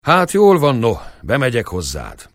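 loud, high burst then settling; shepherd snapping and giving in; hot-tempered. Acted. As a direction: give in with an angry outburst. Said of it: "Fölugrott indulatosan".

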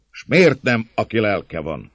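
high, exasperated challenge; shouted question. A narrator's reading. Rough man challenging the gatekeeper, shouting. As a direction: demand a reason, starting loud. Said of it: "kiáltott az előbbi".

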